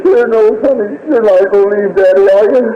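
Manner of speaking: put-on high, tender plea to a child; tearful pleading. Father bending over his dying baby, pleading.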